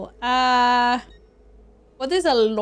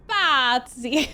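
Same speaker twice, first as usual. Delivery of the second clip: imitated, overdone Italian accent. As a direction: say it like an Italian game character. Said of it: "when they're talking in game, and it's like".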